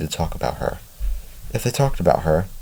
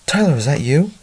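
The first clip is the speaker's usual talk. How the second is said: put-on high-pitched call for a lost child; contained storyteller's yell, pitched up; 9 semitones higher than usual. A narrator's reading. Father calls for his lost son at the cliffs, calling out. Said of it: "And he yells".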